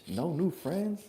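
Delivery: mock a childish slogan; lightly voiced little kid. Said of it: "you sound like a".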